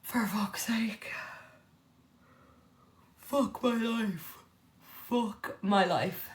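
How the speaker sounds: slow whispered frustration; frustrated whisper. Real, not acted. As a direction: sigh it out, half whispered. Frustrated muttering.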